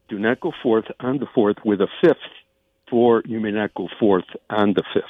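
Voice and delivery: measured, with a pause midway; slowed down. Shown as a demonstration. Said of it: "You want me to slow it down?".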